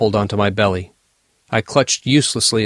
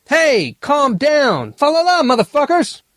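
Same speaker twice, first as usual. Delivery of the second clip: raging scream. Acted. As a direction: scream it in pain and rage. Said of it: "I screamed in rage".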